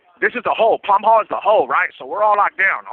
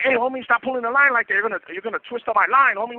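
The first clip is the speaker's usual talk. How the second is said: high, fast complaint shouted down the tier; half-yelled gripe through the cell door; yelling at a neighbor; 7 semitones higher than usual. Retold or imitated. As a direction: call out in irritation, pitch way up. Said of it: "yelling at each other".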